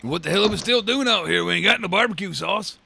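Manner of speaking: a hammed-up Texan. Joking about wrestlers, hammed-up southern accent.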